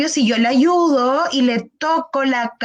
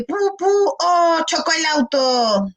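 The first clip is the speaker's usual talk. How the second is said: playing child; 4 semitones higher than usual. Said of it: "estar jugando".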